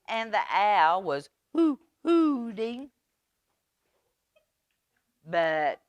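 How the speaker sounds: expressive storytime narration; storybook reading. Acted. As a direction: paint the windy night for the children. Reads a picture book aloud.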